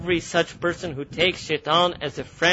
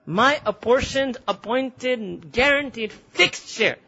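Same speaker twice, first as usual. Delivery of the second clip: higher, slow, gloating list; Iblis gloating; 5 semitones higher, much slower than usual. Acted. Iblis insisting on his fixed share before Allah, slow and gloating. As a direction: lay out each word of the claim with relish. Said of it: "That's how he's talking to Allah".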